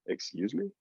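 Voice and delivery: high, rising "Excuse me?", offended; indignant. Retold or imitated. Girl offended by his teasing, indignant high rise. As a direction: bristle at the tease with a sharp question.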